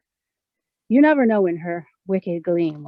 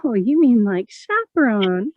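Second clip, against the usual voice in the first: tinkly laughing question; 2 semitones higher, 5 dB louder, slower than usual. Acted. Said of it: "gives a tinkly little laugh".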